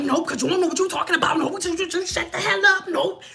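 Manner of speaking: mock aggressive shutdown, quick; a hint of a pushy know-it-all; aggressive women. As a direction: imitate a snippy woman cutting someone off. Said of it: "they'll be all aggressive".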